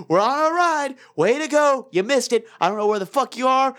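high-pitched, fed-up mock scolding; sarcastic retold exasperation; retold angry voicemail. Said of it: "getting more and more angry".

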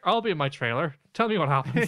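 lightly mocked Northern Irish accent; offhand dismissal in mock Northern Irish; Barry. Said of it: "Barry's just like".

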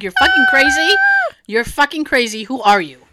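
mock-hysterical accusation; acted-out incredulous outburst. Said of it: "I was actually hysterical".

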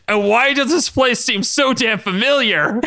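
high, slow scream through a laugh. A narrator's reading.

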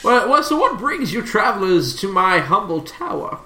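lightly voiced genial host professor. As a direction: play a professor greeting visitors, lightly.

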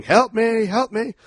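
high-pitched cry for help; hammed-up, high panicked plea; mock scream. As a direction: imitate a trapped passenger screaming. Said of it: "starts screaming".

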